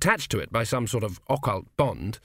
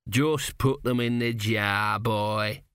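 weary; 2 semitones lower, much slower than usual. Acted. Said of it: "said Dill wearily".

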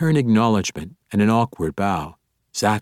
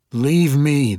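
higher, louder demand; 7 semitones higher, 5 dB louder than usual. A narrator's reading. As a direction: insist she leave, raised voice. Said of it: "the woman demanded".

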